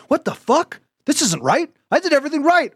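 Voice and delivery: retold pissed off. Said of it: "I was all pissed off".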